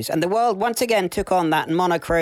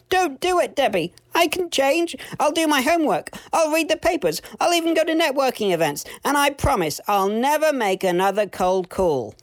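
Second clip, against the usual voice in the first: desperate squeal; 11 semitones higher than usual. A narrator's reading. Sam promising Debbie he can change, desperate squealing. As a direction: beg desperately in a squeaky high voice. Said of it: "squealed Sam in desperation".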